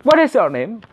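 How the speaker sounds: slow, high-pitched question drill; model for repetition. Shown as a demonstration. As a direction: stretch and lift the question for learners. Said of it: "repeat after me once more".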